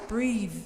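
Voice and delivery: "Breathe" with long ee and voiced th; verb pronunciation. Shown as a demonstration. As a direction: repeat "Breathe" as the verb, buzzing the final th. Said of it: "The verb you pronounce".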